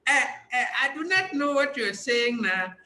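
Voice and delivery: brief mock Nigerian accent. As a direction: slip back into the Nigerian voice with a laugh. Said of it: "Korak is different and better".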